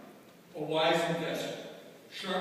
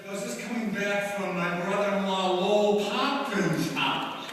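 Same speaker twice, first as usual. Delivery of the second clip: innocent act; 2 semitones higher than usual. Retold or imitated. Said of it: "subtly as I could".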